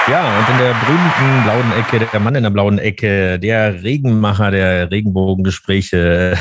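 boxing-style ring introduction; ring announcer. Pretend. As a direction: announce him like a title fight. (wie ein Ringsprecher beim Boxkampf)

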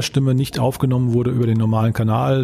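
tinny, boxed-in sound; tinny recording. Real, not acted. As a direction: voice sounds like it's from a tin can. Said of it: "als säße ich irgendwie in der Blechbüchse".

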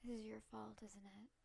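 quiet accusation. Acted. Player character to the fallen statue, hushed accusation. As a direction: accuse under your breath. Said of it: "I say to the statue".

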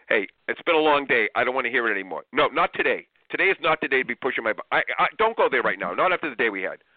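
fed up at day's end; exhausted parent. Retold or imitated. Tired parent snapping at the kids late in the day. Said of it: "have said this line".

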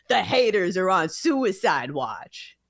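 slow, dragged-out mocking quote; mock the bravado line; lightly hammed tout line. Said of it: "as opposed to".

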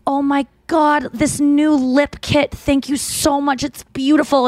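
lightly mocking sweet celebrity thanks; gushing Kim Kardashian. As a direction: coo a grateful product plug. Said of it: "she's like".

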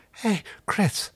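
high, light call across the room. Acted. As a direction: call casually to a friend. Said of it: "she called out to him".

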